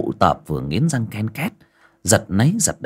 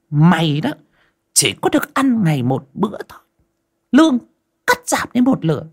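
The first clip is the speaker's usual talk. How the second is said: high, loud, haughty shrew voice; sour mistress; 9 semitones higher, 3 dB louder than usual. Acted. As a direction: lord it over the servant. Mistress orders and punishes servant. (giọng mụ chủ chua ngoa hống hách)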